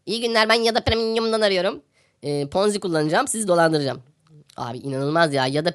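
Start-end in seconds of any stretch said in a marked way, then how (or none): 0.1-4.0 mock scam caller. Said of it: "bir şirketten arıyorlar seni".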